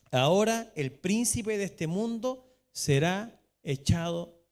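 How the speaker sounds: loud, slow proclamation of the verse; proclaiming. Acted. Pastor proclaiming Jesus' words to the church, loud and slow. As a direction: declare it from the pulpit.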